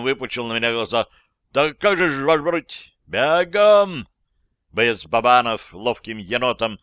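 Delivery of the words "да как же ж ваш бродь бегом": high loud startled cry; startled exclamation. A narrator's reading. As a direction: caught off guard, blurting out. Surprised recruit runs off.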